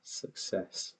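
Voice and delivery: whispered mock echo, barely voiced. Real, not acted. Mocking the clip's boast in a whisper. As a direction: breathe the word back in a sneering whisper.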